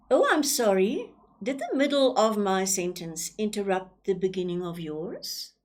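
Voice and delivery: mock-sorry opening, then a flat sarcastic jab; sarcastic apology. Shown as a demonstration. Teacher mocks an interrupter, sarcastic. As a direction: fake apology that stings. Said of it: "It is a very sarcastic, um, attack".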